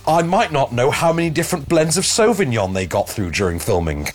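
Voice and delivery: dry mock-grand sarcasm, lightly done; sarcastic reading. Reading the studio's email aloud with light sarcasm. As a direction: read it back with a sneer under the politeness. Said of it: "I can't resist reading an email aloud with sarcasm".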